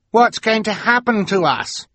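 high frightened question; a scared scout pleading; fearful child. A narrator's reading. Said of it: "asked one of the Snow Scouts fearfully".

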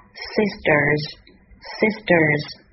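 "sisters" slowly, the t softened towards d; voiced t. Shown as a demonstration. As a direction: say "sisters" like "sisders", twice, slowly. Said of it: "这里会有一个浊化".

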